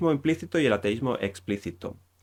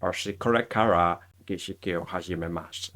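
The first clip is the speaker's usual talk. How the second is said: Japanese spoken with a put-on English accent; acento inglés en japonés; 2 semitones lower than usual. Shown as a demonstration. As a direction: imitate an English speaker reading out Japanese. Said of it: "hacer como que hablas con acento inglés". (japonés con acento inglés fingido)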